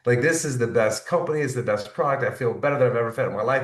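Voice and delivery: acted-out excited confiding; gushing excitement. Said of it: "That's when you get excited".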